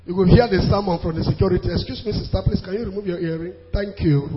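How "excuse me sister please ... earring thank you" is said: quiet polite request. Retold or imitated. Security guard politely asks at gate.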